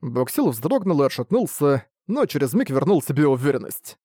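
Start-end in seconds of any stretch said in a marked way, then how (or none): none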